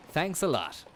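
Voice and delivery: imitating the delivery robot's voice; robot impression. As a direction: echo the robot's chirpy thanks. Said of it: "it talks as well".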